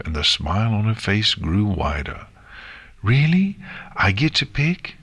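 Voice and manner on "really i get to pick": thrilled little filly, high; excited. Acted. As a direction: gasp it out in disbelief. Nix thrilled, disbelief.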